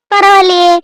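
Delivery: high, loud, teasing amazement; impressed surprise. Acted. Wife to husband who ordered a heater, impressed surprise. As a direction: call it out, pleasantly taken aback.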